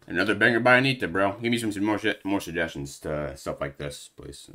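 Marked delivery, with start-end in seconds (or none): 1.4-4.5 breathless after dancing; panting between words; out of breath. Real, not acted. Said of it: "I'm literally out of breath".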